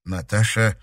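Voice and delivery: plain reading voice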